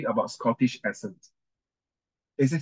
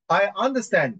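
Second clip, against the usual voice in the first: lightly acted counsel, higher pitched; courtroom counsel; 7 semitones higher than usual. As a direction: read it lightly in role as counsel. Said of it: "I'll be the counsel".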